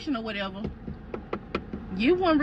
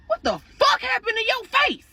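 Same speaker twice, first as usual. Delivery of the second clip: pitched up high in shock; shocked outburst; 13 semitones higher than usual. Retold or imitated. Boyfriend sees her bruised face, shocked and high. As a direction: blurt it out, stunned.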